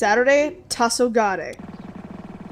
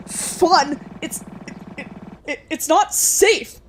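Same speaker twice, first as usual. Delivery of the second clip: alarmed; 4 semitones higher, slower than usual. Acted. Allison objects in alarm.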